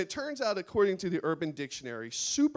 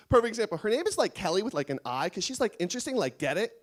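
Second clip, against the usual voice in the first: mock Kelly; 3 semitones higher, faster than usual. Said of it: "She says it like that every time".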